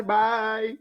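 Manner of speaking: high, laughing through words. Real, not acted. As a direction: still giggling hard. Host still laughing after guest.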